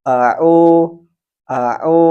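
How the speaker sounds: Au with a clean glottal hamzah from the base of the throat; correct hamzah. Shown as a demonstration. Teacher demonstrating the right hamzah. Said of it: "Kita contohkan yang benar".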